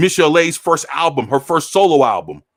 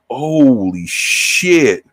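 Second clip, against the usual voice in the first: stunned awe; much slower than usual. Retold or imitated. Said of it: "and I was like".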